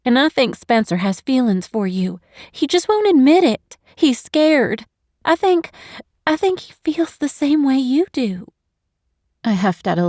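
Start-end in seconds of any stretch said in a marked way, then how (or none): 0.0-8.5 put-on a higher, lighter young woman, gently coaxing; higher, louder confiding girlfriend voice; Eve's voice. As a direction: lift into a younger friend's voice, confiding. Eve voiced in story.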